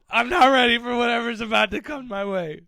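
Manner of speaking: high, loud hammed-up pleading; mock panic. Fighter dreading what's coming his way, mock panicked pleading. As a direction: wail it like a fighter begging for mercy.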